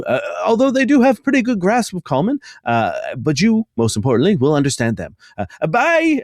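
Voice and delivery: high, fussy little voice rising in bursts; Roland character voice. Acted. Roland hands over the codex, high fussy voice. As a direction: play the polite, flustered guide.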